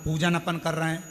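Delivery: loud, hammered phrases; preacher driving the point to the crowd; emphatic preaching. Acted. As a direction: pound each word home. Preaching at full force.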